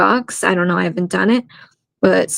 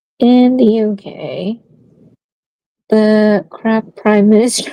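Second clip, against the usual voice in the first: slow, careful, deliberate read-aloud delivery; 3 semitones higher, 3 dB louder than usual. Reading a viewer's comment aloud: reading slowly. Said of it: "I was just reading that slow".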